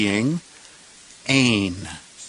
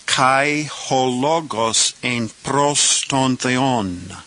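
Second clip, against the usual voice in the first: a little faster; slower than usual. Shown as a demonstration. Teacher rereading the clause a little faster for students. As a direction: still slow but quicker than the first take, flowing through "Kai ho logos ein pros ton theon". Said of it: "This time a little faster".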